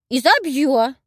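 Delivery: put-on loud, high old woman's threat; loud granny vow; jealous wife. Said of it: "заявила я, как ревнивая жена".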